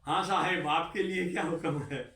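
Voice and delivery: mock-polite sarcastic offer to help. Officer sneering at the new joiner, mildly sarcastic. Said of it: "बड़ा sarcastic वे में उसने बोला".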